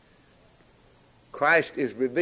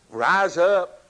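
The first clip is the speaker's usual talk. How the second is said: louder call; 5 semitones higher, 4 dB louder than usual. Acted. Preacher voicing Christ, calling the beloved out loud. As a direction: rise up called out strong and high.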